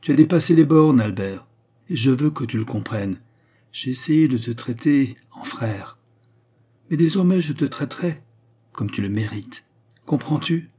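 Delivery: cold anger. Acted. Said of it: "Sa voix contenait une colère froide".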